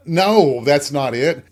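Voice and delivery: teacher correcting. Retold or imitated. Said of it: "the teacher looked at me so funny".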